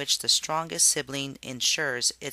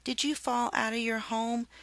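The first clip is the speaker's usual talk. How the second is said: cooing; 9 semitones higher than usual. A narrator's reading. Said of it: "she cooed".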